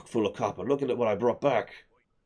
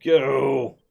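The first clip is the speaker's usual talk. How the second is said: excited shout; 6 semitones higher, 7 dB louder than usual. Real, not acted. Rushing to build.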